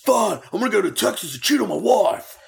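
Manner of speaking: hammed-up blubbering wrestler walking out; crying Warrior. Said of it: "and then he's like".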